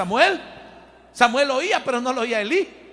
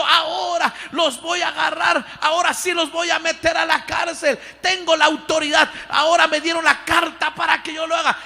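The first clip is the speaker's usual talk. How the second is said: gloating threat; 6 semitones higher than usual. Acted. Saul plotting to arrest believers.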